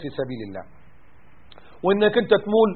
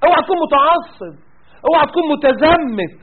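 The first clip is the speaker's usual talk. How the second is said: mocking warning; 5 semitones higher than usual.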